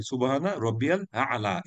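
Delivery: slow সুবহানা রব্বিয়াল আ'লা, আ'লা with a throat ع; careful recitation. Shown as a demonstration. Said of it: "এই আ'লা শব্দটা দেখেন". (ধীরে তিলাওয়াতের মতো)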